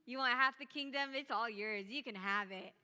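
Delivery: lightly voiced lovestruck offer; doting king. The king at the banquet, lightly doting offer. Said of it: "the king is like".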